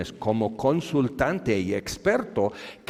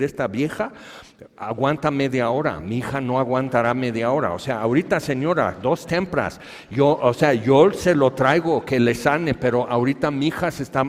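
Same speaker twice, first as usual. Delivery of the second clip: urgent protest; 3 semitones higher, 6 dB louder than usual. Acted. Jairo arguing urgently.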